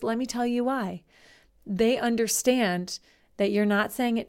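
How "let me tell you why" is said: kind voice. Shown as a demonstration. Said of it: "in that kind voice".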